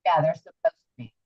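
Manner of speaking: muddled microphone sound; underwater. Real, not acted. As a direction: voice muffled through a bad mic. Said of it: "Sounds like you're underwater".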